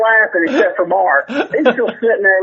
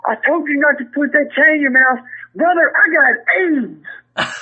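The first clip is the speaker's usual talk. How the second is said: mock distraught; 6 semitones higher than usual. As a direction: ham up a fake tearful confession. Retold rib, mock distraught confession.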